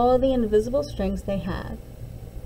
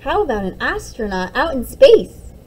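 put-on excited child; 7 dB louder than usual. Children's eager guessing game.

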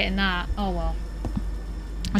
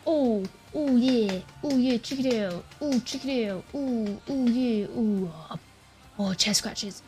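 cooing pet voice; 4 dB quieter than usual. Real, not acted. Cooing at dog, scratching chest.

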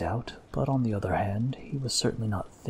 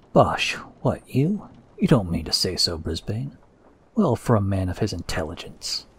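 surprised loud exclamations; 7 dB louder than usual. Acted. Chorus of exclamations at the table.

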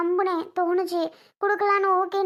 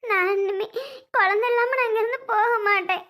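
tearful, slightly raised voice; weeping, demanding an answer; agitated crying; 3 semitones higher than usual. Acted. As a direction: plead in distress through tears. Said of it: "பதறாத, அழாத".

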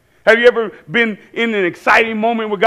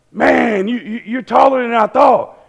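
imitated starstruck stammer, pitched up; excited fan; 5 semitones higher than usual. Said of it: "He was so excited".

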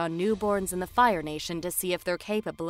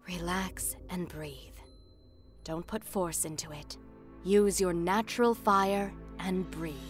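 calming coach. Acted. Tester guiding Kyoshi to relax and breathe, calming. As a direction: ease her gently into breathing.

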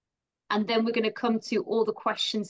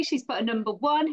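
normal talking voice

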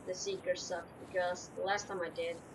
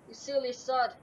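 raging gamer; 4 semitones higher than usual. Real, not acted. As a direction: shout "You silly sod!" at the game. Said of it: "the silly sod thing I got from".

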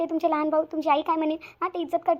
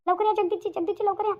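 urgent calling out; 5 semitones higher than usual. Acted. Wife calling her husband urgently from inside. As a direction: shout for him to come quickly.

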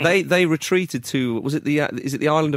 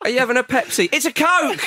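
mock celebration; 7 semitones higher than usual. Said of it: "punning goal celebrations".

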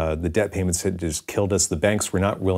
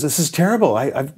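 put-on high-pitched, pleading German accent; hammed-up German customer, pitched well up; 9 semitones higher than usual. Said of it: "Sorry about the German accent".

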